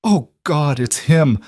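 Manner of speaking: high, stricken gasp. A narrator's reading. Mother identifies her son's body, gasping. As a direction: horror catching in her throat. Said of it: "Marissa gasped".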